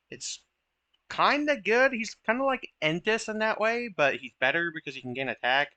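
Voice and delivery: tripping over words while explaining; halting, stumbling speech; stuttering. Real, not acted. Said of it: "I'm stuttering a lot today".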